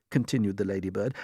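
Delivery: usual speaking voice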